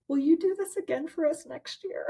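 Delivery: high-pitched imitation of an eager group; imitated eager plea. Retreat women asking her for next year, imitated high plea. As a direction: plead up high, mimicking the group.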